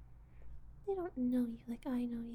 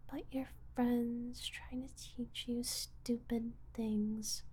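ordinary delivery

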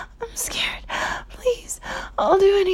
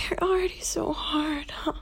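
whisper; 6 dB quieter than usual. Acted. Intimate roleplay aside.

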